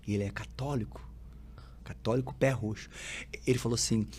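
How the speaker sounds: ordinary delivery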